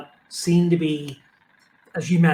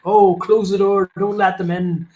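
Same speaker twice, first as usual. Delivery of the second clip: higher, louder mock alarm at the door; joking householder; 5 semitones higher, 7 dB louder than usual. Householder spotting missionaries at the door, mock alarm. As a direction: play a householder hamming up panic. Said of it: "you kind of joke on it".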